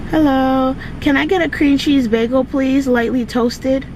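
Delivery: high, bright customer-service politeness; sweet drive-thru order voice; polite ordering voice. Real, not acted.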